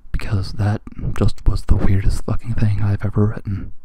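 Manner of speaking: plain reading voice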